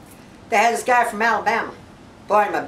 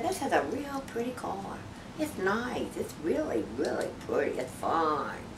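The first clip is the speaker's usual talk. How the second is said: hairlip man voice; 5 semitones lower, 12 dB quieter than usual. Acted.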